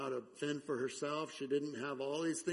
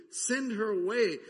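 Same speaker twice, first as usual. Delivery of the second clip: loud, higher, annoyed demand; exasperated plea; 6 semitones higher, 9 dB louder than usual. Acted. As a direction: bark it out like fed-up disciples. Disciples begging Jesus, exasperated.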